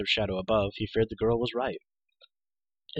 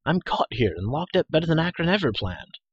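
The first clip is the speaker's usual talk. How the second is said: frustrated despair; 7 semitones higher, 5 dB louder than usual. Acted. Trapped hero laments being locked up.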